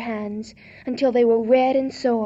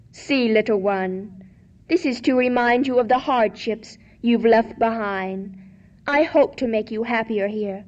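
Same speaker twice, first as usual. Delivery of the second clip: kind king; 4 dB louder than usual. Acted. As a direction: comfort her gently as the king. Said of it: "said the king".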